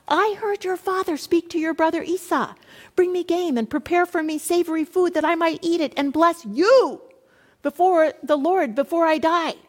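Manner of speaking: a hint of a mother instructing her son; lightly voiced mother. Mother telling her son to obey her, lightly commanding.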